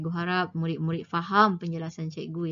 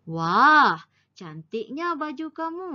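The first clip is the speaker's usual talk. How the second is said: loud "Wah", then "cantiknya baju kamu" higher; exclamation; 6 semitones higher, 6 dB louder than usual. Shown as a demonstration. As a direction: read it out as an admiring exclamation. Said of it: "bagaimana kita mahu membaca ayat ini". ("Wah" diseru kuat, dengan nada kagum)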